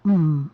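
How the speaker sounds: short held-breath hum; strained hum. Real, not acted. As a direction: push out a tight closed-mouth hum. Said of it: "I'm not moaning. I'm holding my breath".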